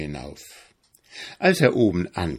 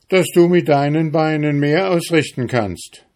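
boastful little hedgehog, pitched high and loud; 8 semitones higher, 6 dB louder than usual. Acted. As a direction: puff himself up, challenging the hare. Hedgehog continues his challenge. (gereizter Igel, hoch und laut)

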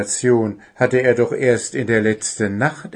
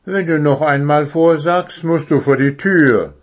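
stern teacher warning, louder; 6 semitones higher, 6 dB louder than usual. A narrator's reading. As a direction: warn him off sternly. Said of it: "sagte die Eule streng".

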